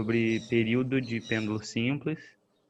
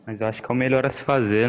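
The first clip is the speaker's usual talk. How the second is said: said again, a touch louder and clearer; repeated for clarity; 4 dB louder, faster than usual. Real, not acted. Student repeating for a teacher who missed it, a bit louder. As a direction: repeat it so the teacher finally catches it. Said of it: "Não entendi".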